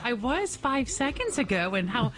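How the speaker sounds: breathless, words between quick breaths. Real, not acted. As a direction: still winded from sprinting upstairs. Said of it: "why are you out of breath".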